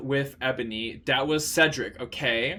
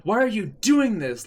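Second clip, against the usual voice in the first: high, raised angry demand; said angrily; 7 semitones higher, 4 dB louder than usual. A narrator's reading. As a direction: throw the question at her in anger. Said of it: "Lupin said angrily".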